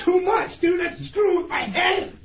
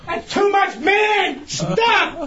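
shouting in protest, higher; yelling; 3 semitones higher, much slower than usual. Real, not acted. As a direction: yell it out, begging them to stop. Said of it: "Stop yelling".

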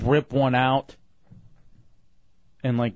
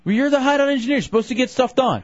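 exasperated shout; 12 semitones higher, 3 dB louder, faster than usual. Real, not acted. Arguing with engineer.

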